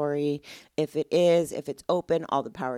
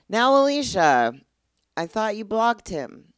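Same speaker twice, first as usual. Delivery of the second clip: loud, higher voice calling her out by name; mock scolding listener; 7 semitones higher, 8 dB louder than usual. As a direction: play a friend catching her out, loud.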